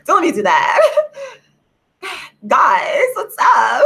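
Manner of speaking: laughing through the words. Real, not acted. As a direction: crack up while talking. Laughing at her own joke.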